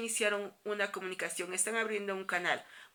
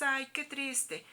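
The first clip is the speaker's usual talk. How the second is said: mock sad sigh; 5 semitones higher, much slower than usual. Shown as a demonstration. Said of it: "le ponemos los signos de admiración".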